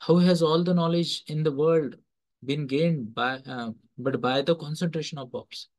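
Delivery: very slow, every word spaced for note-taking; dictation pace. Shown as a demonstration. Teacher dictating Swami ji's quote to students, very slow. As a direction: read it out slowly so they can write it down. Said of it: "please note करें दोस्तों".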